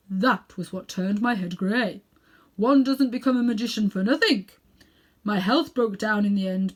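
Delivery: put-on self-important elderly uncle showing off; Uncle Andrew. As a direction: lecture the boy like a vain old magician. Uncle Andrew continues his tale.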